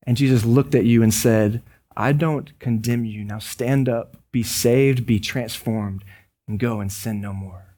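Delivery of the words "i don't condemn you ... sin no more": low, softening voice of mercy; gentle forgiveness. Retold or imitated. Jesus to the condemned sinner at his feet, gently forgiving. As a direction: quietly release them, letting the words fall away.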